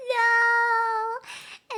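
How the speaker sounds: high, loud disbelieving cry. Real, not acted. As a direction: shout it in disbelief. Reacting to the crazy scene.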